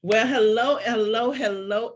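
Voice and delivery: bright rising hellos, each one lifted; sing-song hello. Real, not acted. Host opens her podcast with a lilting, rising greeting.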